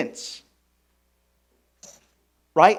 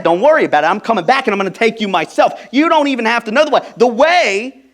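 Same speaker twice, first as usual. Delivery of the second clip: reassuring Jesus; 6 semitones higher, 4 dB louder, faster than usual. Retold or imitated. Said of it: "Jesus just said".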